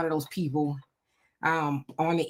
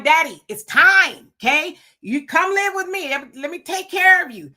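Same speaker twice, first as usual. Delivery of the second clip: pleading with dad; 8 semitones higher, 6 dB louder than usual. Retold or imitated. Son recalls begging his father to move in, coaxing. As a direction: coax him gently but firmly.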